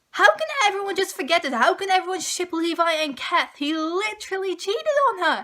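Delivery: fast, exasperated rant; quick, lightly ranting fan; exasperated disbelief. Retold or imitated. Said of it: "where I was like".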